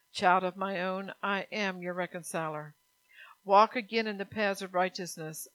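earnest, measured preaching as God; voicing God's words. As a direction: speak as a loving Father calling his child home.

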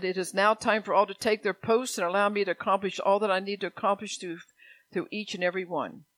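prophecy reading. Real, not acted.

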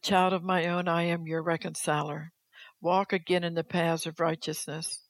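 measured, firm preacher's reading; solemn declaimed reading. Acted. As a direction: read it out as God's own declaration. Reads God's words aloud to congregation.

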